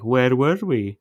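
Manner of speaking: hammed-up romantic recollection; imitated movie line. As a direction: swoop up as it comes back. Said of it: "And then he was like".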